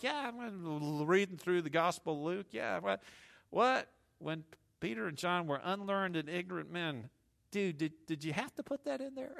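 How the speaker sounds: taken aback. Acted. Voices Peter reading Luke, taken aback.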